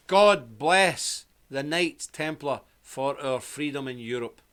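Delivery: slow, measured ceremonial address; formal soldier's salute. Retold or imitated. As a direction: lightly imitate a soldier paying solemn tribute. Soldiers salute and bless him formally.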